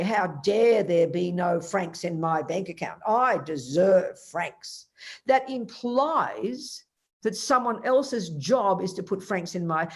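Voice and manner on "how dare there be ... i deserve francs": slow, self-righteous mock complaint; mock indignation. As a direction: draw it out as if entitled. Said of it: "look in your bank account and say".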